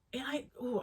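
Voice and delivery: a breathy whispered ooh as she catches herself. Real, not acted.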